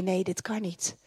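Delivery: low, soft, defeated no; quietly giving up hope; despairing doubt. Retold or imitated. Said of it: "en dan denk je".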